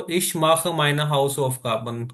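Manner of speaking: very slow and even; slow example sentence. Shown as a demonstration. Teacher repeating example for learners, very slow. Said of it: "मैं अपना homework करता हूँ".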